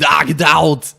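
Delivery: loud get-out bark; gruff shout. Acted. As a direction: shout them out the door. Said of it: "It's almost like it's saying".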